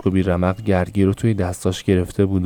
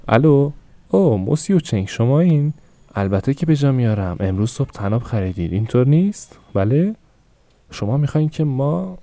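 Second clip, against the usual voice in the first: higher, bright customer-service phone manner; a shopkeeper sweetly greeting a regular caller; 5 semitones higher than usual. Acted. Mother answers shop phone. (صدای تلفنی مؤدب و زیر فروشنده)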